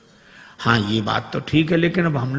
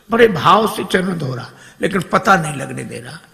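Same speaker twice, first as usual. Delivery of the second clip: ordinary talk, nothing marked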